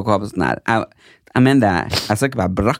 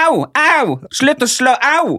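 fake pain cries; 14 semitones higher, slower than usual. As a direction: play the victim with exaggerated yelps. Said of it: "Jeg bare". (overdrevne, falske smerteskrik, veldig lyst)

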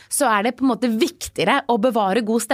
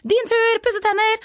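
cheery parent call; 12 semitones higher, slower than usual. Retold or imitated. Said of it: "og så".

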